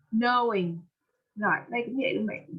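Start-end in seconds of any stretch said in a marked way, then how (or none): 0.1-0.8 "Knowing" with O gliding from uh to oo; gliding O sound. Shown as a demonstration. Teacher modelling for students, "Knowing" with a gliding OH. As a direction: model "Knowing" with a clear OH diphthong. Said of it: "thì mình đọc là O".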